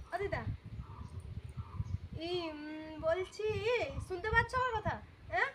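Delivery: speaking up clearly for grandma; to someone hard of hearing. Real, not acted. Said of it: "আমি জোরে জোরেই বলছি".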